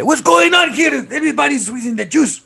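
a hint of an exasperated shopkeeper; mock store clerk. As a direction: play the fed-up clerk in a put-on accent. Clerk voiced, mocking the movie.

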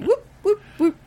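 high-pitched little whoops; whoop-whoop in mock celebration. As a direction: toss out playful high whoops. Mocking actors who read Stanislavski.

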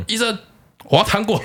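high-pitched imitation of a small child; little kid voice. Retelling the kid asking the doctor for candy, high child voice. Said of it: "然后这时候雷蒙说话了".

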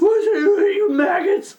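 mock furious yell, high-pitched; pissed-off outrage. Pissed-off commenter insulting the podcasters, mock outrage. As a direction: spit out the insult, hammed-up. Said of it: "get so fucking pissed off".

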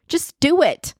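"do" punched high in "just do it"; Nike slogan. Retold or imitated. Quoting the Nike motto to listeners, stressing "do". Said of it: "Even like Nike".

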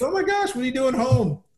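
high, surprised mock wife; wife's surprised voice. Wife voiced in retold story.

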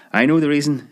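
high, gleeful shout; a little girl bursting to tell; high gleeful shout of a small girl; excited shout. Acted. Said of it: "shouted the seven-year-old sister".

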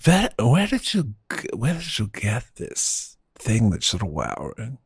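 imitating a Russian accent, lightly; mild Russian-accented question. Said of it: "she's got a Russian accent".

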